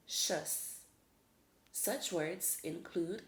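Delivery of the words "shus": shus said as "shuss"; demonstrated suffix sound. Shown as a demonstration. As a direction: shus as at the end of atrocious. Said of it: "the sound will be shus".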